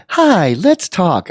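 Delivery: slow, drawn-out friendly hello; mock friendly greeting. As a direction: stretch out a cheery hi. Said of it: "it was sort of like".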